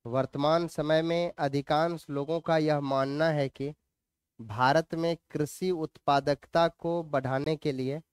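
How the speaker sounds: measured, level dictation with long pauses. Acted. Teacher dictates notes for students to write, measured dictation. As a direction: read it out phrase by phrase for note-taking.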